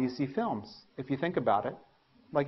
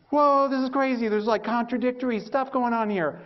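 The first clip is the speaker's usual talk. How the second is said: amazed; 8 semitones higher than usual. Retold or imitated. Baffled by contradictory literature.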